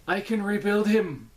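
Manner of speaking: lightly Scottish TV-intro quote; half Scottish accent. Acted. Quoting a TV intro, half Scottish accent. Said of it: "like, the half Scottish accent".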